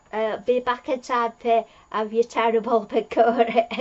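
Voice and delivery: giggling through the punchline; laughing at own joke. Real, not acted. Telling viewers the Doctor's pakora line, giggling. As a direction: crack up at your own retelling. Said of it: "I thought I was funny".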